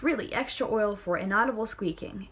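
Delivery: usual speaking voice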